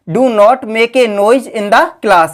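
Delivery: each word drawn out for copying; slow dictation. Shown as a demonstration. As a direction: dictate it slowly to the class. Teacher dictates the English sentence. (धीमी गति से लिखवाना)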